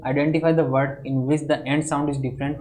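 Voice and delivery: slow, careful reading of an exam question; slow question dictation. Acted. Teacher dictating a quiz question to students, slow and measured. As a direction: read the English question out very slowly for the class.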